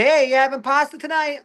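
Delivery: high-pitched put-on chumminess; hammed-up high question; mock Italian-American banter. People tease the Italian comic, mock Italian banter. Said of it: "they start acting like me".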